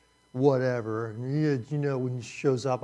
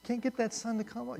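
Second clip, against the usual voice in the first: sheepish Job; 5 semitones higher than usual. Pretend. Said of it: "Job says".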